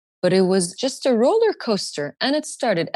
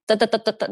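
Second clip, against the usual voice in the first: shaky stutter; much faster than usual. Retold or imitated. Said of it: "a skinny girl shaking".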